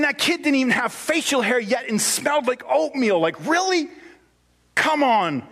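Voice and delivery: high, mock-outraged Naaman; indignant rant. Naaman complaining to his servants about the prophet, mock-indignant. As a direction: huff like an insulted celebrity. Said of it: "he went away in a rage".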